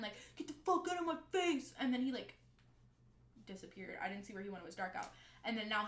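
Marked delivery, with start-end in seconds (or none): 0.4-1.7 higher-pitched imitated yell; retold scream. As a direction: mimic him screaming at his friend. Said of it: "screamed at his friend".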